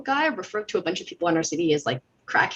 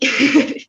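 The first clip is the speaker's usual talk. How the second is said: high, loud nervous giggle; nervous laugh; 9 semitones higher, 10 dB louder than usual. Real, not acted. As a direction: laugh out the nerves. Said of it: "super nervous".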